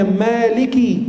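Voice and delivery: maliki drawn out, ending in a clear "ki"; kasrah on kaf. Shown as a demonstration. Preacher teaching the reading, maliki with its final i. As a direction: say maliki slowly with the final i fully voiced. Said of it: "kaf kasrah".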